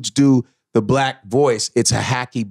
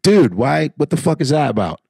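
casual black dude voice. Shown as a demonstration. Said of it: "black voices that sound like this".

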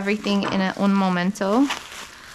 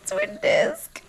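excited squeal. Real, not acted. Unboxing dream part.

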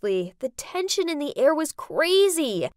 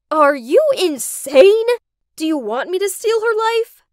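outraged shout; 7 semitones higher, 8 dB louder than usual. Acted. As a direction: hurl it at her like an accusation. Daughter confronts scheming mother.

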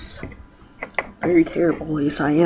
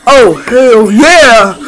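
excited cheer; much slower than usual. Pretend. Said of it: "I wanted to say it".

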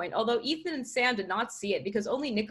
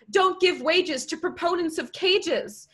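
slow, raised declamation of a slogan; high, louder, measured delivery; slogan reading; 9 semitones higher, 5 dB louder, slower than usual. Acted. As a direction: read it out like a placard. Protest sign slogan read out.

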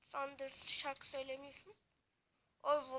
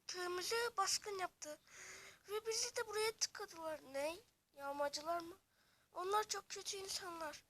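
slightly higher villager voice; lightly voiced villager; 4 semitones higher, 5 dB louder than usual. Villager telling the heroes about the raiders, lightly worried. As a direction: tell the raid like a worried villager. Villager figure tells story.

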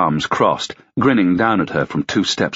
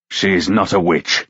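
snapped; slower than usual. Acted. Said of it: "Ruck snapped".

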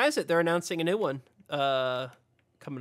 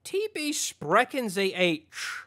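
mock German accent; 3 semitones higher, slower than usual. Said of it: "crazy German nonsense".

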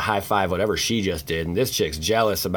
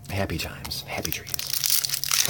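Bob Ross whisper; 4 dB quieter, much slower than usual. Acted.

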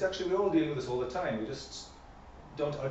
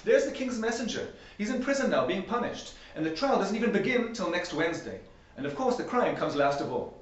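the Queen; 7 semitones higher, 3 dB louder than usual. A narrator's reading. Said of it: "the Queen replied".

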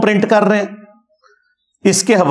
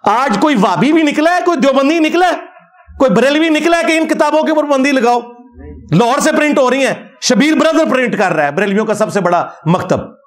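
real indignation, pitched high; indignant challenge; 6 semitones higher than usual. Real, not acted. Preacher challenging rival sects over printed books, indignant. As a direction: challenge them in a high, insistent voice.

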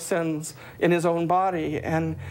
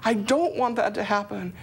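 much higher, pained pleading; anguished plea; 5 semitones higher than usual. Retold or imitated. Remembering the cross, a high anguished plea. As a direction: cry out against his suffering. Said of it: "it was like".

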